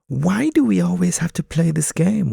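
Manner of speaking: high, loud weary pigeon; a pigeon tired of the game. Acted. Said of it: "one pigeon says".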